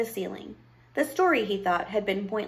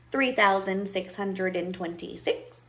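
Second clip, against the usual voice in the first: slow, measured count with a rising last word; witch counting. Acted. Witch counts her pieces of gold, absorbed. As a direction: count coins slowly, unhurried.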